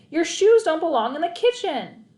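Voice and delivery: loud, high scolding; scolding yell. A narrator's reading. Mom yelling at her son about his shoes. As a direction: scold him loudly. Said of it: "yelled Mom".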